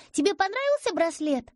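put-on high quick little girl voice; rattling child. A narrator's reading. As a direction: chatter like an eager girl. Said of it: "затараторила девочка". (тараторит как девочка)

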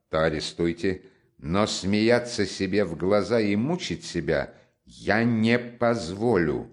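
steady accusation, each word distinct; loud and distinct. Acted. Raskolnikov confronts Porfiry, loud and distinct. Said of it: "громко и отчётливо".

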